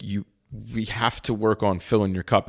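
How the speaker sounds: talking through the hiccups; speaking with hiccups. Real, not acted. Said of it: "excuse me, I have the hiccups".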